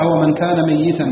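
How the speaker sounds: ميتا as "mayyitan", with a doubled y. Shown as a demonstration. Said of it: "بتشديد الياء في الثلاثة". (ميّتا بتشديد الياء)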